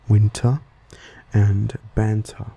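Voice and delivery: "winter" and "banter" with a sounded T after the N; T pronounced. Shown as a demonstration. Host showing own habit, T fully said in "winter" and "banter". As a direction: keep the T clear in "winter" and "banter". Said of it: "pronouncing the T in the middle".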